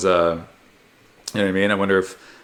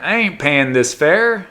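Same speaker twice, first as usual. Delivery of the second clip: slow, raised-pitch fare dodger quote; imagined fare dodger; 4 semitones higher, slower than usual. Acted. Guy riding the tram free, slow defiant quote. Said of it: "well, he wouldn't talk like that".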